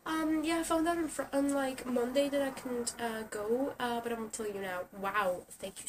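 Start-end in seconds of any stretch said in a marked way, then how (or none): 0.1-4.8 mocking excuse voice. Imitating a friend cancelling late, mock airy higher voice. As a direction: parody a flaky friend's excuse. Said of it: "They're like".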